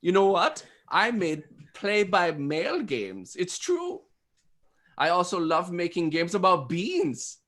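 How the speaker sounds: put-on German speed-dater; hammed-up German with swooping pitch; German accent. Host as designer dropping clues on speed date, German accent. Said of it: "I'm just talking in a German accent".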